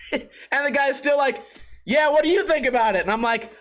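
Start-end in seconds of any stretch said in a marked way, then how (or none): 1.8-3.0 clerk impression. Clerk still talking.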